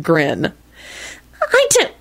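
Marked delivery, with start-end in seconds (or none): 1.4-1.9 high, drawn-out arch flirtation. A narrator's reading. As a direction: coo it archly, very high and slow. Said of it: "she told him archly".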